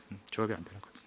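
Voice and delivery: muttered aside. Shown as a demonstration. Preacher muttering to himself about the child's confusion, soft. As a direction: drop to a private mumble on 조합이 안 되는 거예요. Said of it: "이게 다 이렇게 조합이 안 되는 거예요".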